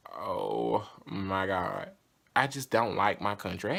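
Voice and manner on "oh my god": slow, drawn-out mock groan of dismay; cringing dismay. Watching own video back and hating the accent, cringing. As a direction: draw it out like you're cringing at yourself. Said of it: "I cringe watching my own videos".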